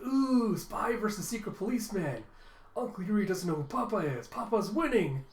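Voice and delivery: play-acted childlike excitement; excited. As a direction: relish the showdown with a big ooh. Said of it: "she's getting all excited".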